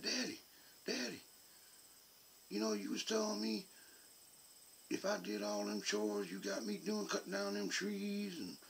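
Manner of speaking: put-on boy pleading for his promised allowance; son's voice. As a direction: pitch up into a kid reminding dad of a promise. Son's voice quoted by father.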